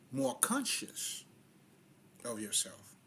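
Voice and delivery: breathy slowed whisper; slow, soft whisper. Real, not acted. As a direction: whisper it slowly. Drops voice mid-sentence.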